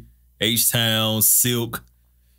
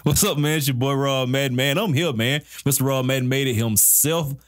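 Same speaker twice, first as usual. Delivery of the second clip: ringmaster; 5 semitones higher than usual. Acted. Show host intro.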